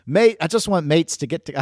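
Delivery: a mock Australian accent that keeps slipping; bad Australian accent. Host mimicking Mike in a jokey Australian accent. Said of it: "I can't do an Australian accent".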